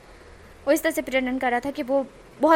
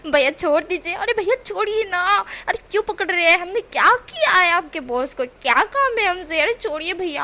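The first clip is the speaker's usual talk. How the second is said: loud yelling; 5 semitones higher, 4 dB louder than usual. Acted. Wing shouting at guards in public, loud pleading. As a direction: wail at them to let go. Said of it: "इतनी ज़ोर ज़ोर से चिल्ला रहा था".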